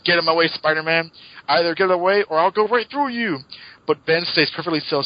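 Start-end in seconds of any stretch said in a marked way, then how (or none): 0.0-3.4 creature threat. Retold or imitated. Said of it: "and the creature says".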